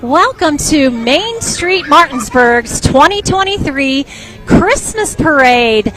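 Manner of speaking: slow, grand opening welcome; announcer. Real, not acted. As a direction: announce it like a big event. Host opens parade broadcast.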